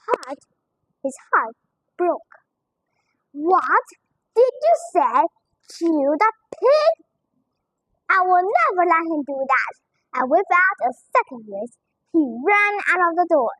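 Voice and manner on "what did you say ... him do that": put-on upset child. Child protests to father.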